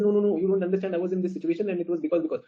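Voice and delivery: high-pitched, hurried excuse, acted out; flustered self-defence. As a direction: play a husband scrambling to explain himself. Husband defending himself in retold quarrel.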